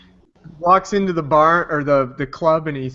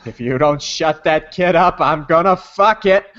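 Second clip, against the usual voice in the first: angry Gottfried rant; slower than usual. Retold or imitated. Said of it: "he goes".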